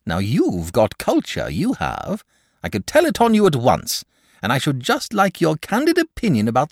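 effusive, sociable dragon with swooping pitch; chatty, flattering dragon; dragon character voice. A narrator's reading. Dragon welcomes the boy as a cultured neighbour, effusive.

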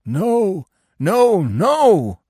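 high, loud howled refusal; dog's high-pitched wail of protest; howling dog. A narrator's reading. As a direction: howl it out like a dog. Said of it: "the dog howled".

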